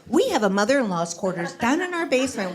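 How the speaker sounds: high-pitched eager offer; uncontrollable generosity. Acted. Offering basement to friend with nowhere to live, mock eagerness. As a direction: blurt it out as a gushing offer. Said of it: "words spew uncontrollably out of my mouth".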